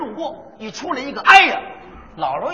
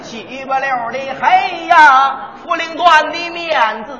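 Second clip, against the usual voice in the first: slow, drawn-out hawker's call; Beijing street hawking; slower than usual. Acted. Comic duo's partner hears a Beijing street vendor hawking. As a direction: cry out wares like an old Beijing peddler. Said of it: "这就是北京故意".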